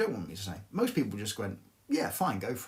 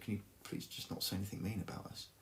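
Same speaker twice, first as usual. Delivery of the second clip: put-on really sweet, meek voice, much quieter; 2 semitones lower, 11 dB quieter than usual. Retell her unexpected request to you, imitating a really sweet, sort of meek voice. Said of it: "in this really sweet sort of meek voice".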